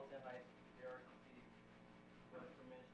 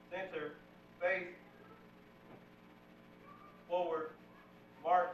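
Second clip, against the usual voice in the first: drill commands; 3 dB quieter than usual. Real, not acted. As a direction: call the commands across the hall. Cadet calls drill commands.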